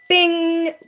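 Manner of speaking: high, drawn-out bing; alert "bing". Acted. Speaker signals a red flag to listeners, high ringing bing. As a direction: imitate a warning chime, held long.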